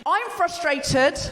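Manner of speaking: drawn-out slogan of frustration; slow, plainly felt frustration; raw emotion. Shown as a demonstration. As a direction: stretch it out with simple, childlike feeling. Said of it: "it's just the raw emotion".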